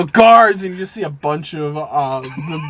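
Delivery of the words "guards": yelling. Acted. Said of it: "you just hear him yell".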